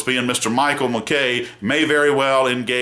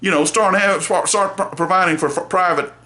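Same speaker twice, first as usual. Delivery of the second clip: indignant lawyer; 6 semitones higher than usual. Retold or imitated. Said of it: "I am angry".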